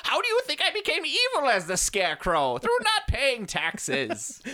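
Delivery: high, slow cartoon villain voice; silky polite villain. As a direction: purr it like a scheming supervillain. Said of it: "Why does the Scarecrow sound like the Monarch?".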